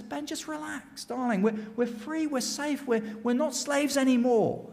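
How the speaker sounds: high, softly coaxing voice; reassuring wife. Acted. Wife reassuring anxious husband.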